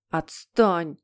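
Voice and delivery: mildly whimpered protest; sobbing, acted. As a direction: snap it out as if close to sobs. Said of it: "всхлипнул Питер". (всхлипывая, понарошку)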